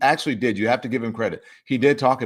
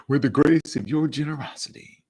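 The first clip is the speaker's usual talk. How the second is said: lightly intoned preacher cadence, higher; mock preacher; 6 semitones higher than usual. Host mimics his own slip as a preacher would. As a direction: echo the line like a Sunday preacher. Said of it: "It sound like a preacher".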